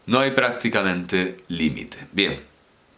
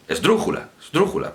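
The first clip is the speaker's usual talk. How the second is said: quick esdrújula. Shown as a demonstration. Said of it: "Parece que lo decimos más rápido".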